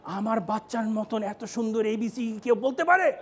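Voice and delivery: mock parental boasting, rising to the question; gushing proud parent act; bursting-proud parent. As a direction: brag about your child as if bursting. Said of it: "বাপ মায়ের বুক ফেটে যাচ্ছে".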